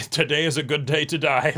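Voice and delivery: grand, heroic war cry, lightly hammed; a mock warrior's last charge; mock battle cry. Host rallying cohost with a mock battle cry.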